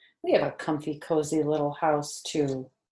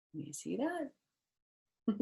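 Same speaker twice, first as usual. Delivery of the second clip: whisper; 7 semitones higher, 8 dB quieter, much slower than usual. Real, not acted. Aside to child over book.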